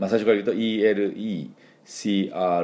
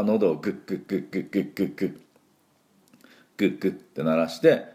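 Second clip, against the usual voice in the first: throat clicks; faster than usual. Shown as a demonstration. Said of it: "喉をグッグッ鳴らして".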